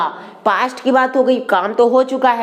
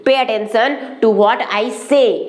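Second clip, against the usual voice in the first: very slow, each word spaced; drawn-out classroom model phrase; slow teaching demo; much slower than usual. Shown as a demonstration. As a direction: model the sentence slowly for learners. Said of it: "तो क्या हो जाएगा".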